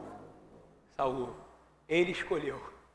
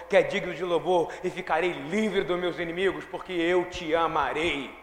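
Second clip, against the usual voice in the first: fiery preaching; 5 dB louder than usual. Acted. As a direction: preach every line to the rafters. Preaches the psalm at full force.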